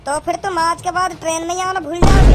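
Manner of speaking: high-pitched furious lecture; heated scolding. Acted. Angry passenger warning never to ask for his seat. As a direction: warn him, pitch climbing.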